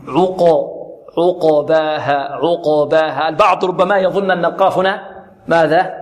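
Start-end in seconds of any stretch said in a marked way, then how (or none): 0.1-3.3 slow "عقباها" with a vowelless qaf bounced heavily; recited "عقباها", dark qalqala on the qaf; heavy echoed qaf. Shown as a demonstration. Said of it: "القاف هنا ساكنة ولذلك تقلقل وماذا".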